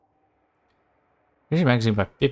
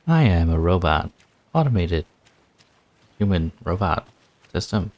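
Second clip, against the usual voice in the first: robot voice; 4 dB louder than usual. Pretend. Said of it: "Why do you sound like a robot?".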